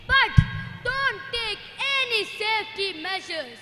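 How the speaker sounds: accusing, rising to a shout; scolding villain. Acted. Pollution scolding careless people, ending in a shout.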